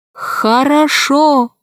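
slow halting dolphin voice; each word forced out with effort. Acted. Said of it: "говорил с трудом, еле выговаривая".

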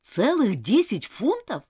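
slow, incredulous question; appalled at the amount; shocked exclamation. Acted. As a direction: stretch each word in disbelief. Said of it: "воскликнула Нора".

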